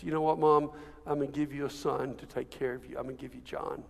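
low, soft words to a mother; gentle, hushed quote. Retold or imitated. Jesus on the cross to his mom, gentle and hushed.

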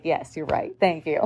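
soft, low, meek agreement. Retold or imitated. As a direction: give in quietly, sheepish. Meekly giving in to daughter.

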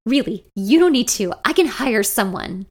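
pleading. Acted. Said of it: "I plead".

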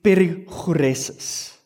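perichoresis with a throaty Greek ch, peh-ri-khoo-REH-sis; Greek pronunciation. Shown as a demonstration. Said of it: "if you wanna say it in Greek".

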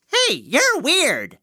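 high, slow shouted jeer; shouted taunt. A narrator's reading. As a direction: yell it like a zippy bully bug. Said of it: "and shouted".

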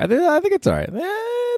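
very high falsetto squeak; silly falsetto. Acted. Checking the mic volume, in a very high falsetto squeak.

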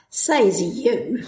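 mocking Says you with a rise; teenage snark. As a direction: toss off Says you like a teen. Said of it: "horrible teenage expression".

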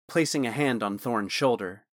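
usual speaking voice

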